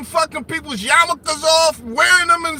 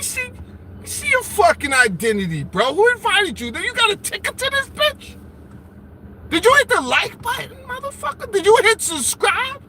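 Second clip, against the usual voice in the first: higher, hammed-up doorman grilling; mock bouncer; 6 semitones higher than usual. Streamer as doorman grilling a viewer, hammed-up. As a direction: demand his ticket like a bouncer.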